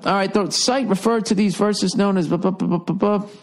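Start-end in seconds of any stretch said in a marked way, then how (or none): none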